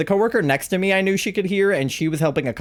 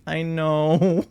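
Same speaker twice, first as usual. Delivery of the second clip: laughing-crying I know. Retold or imitated. Admitting fault, laughing and crying.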